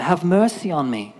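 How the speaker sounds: mild high-pitched shout; imitated shouting out. Blind Bart shouting for mercy, mock shout. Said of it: "he's shouting out".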